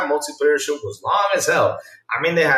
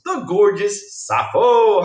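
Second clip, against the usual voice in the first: hype shout-out; 4 semitones higher, much slower than usual. Pretend. Hyping a viewer's name.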